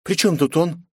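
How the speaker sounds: defiant princess. A narrator's reading. Princess mocks her father, defiant. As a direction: tease and defy her father.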